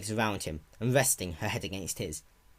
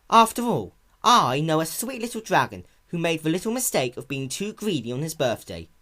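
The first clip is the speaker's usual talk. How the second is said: sweet and caring; 7 semitones higher, 4 dB louder than usual. A narrator's reading. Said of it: "keep her tone as sweet and caring".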